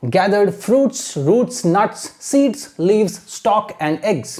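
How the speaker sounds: slow but continuous model reading; measured, joined-up teacher's read-aloud; reading without stopping. Shown as a demonstration. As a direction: read it through steadily for pupils to copy. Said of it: "एक बार फिर से पढ़ते हैं बिना रुके".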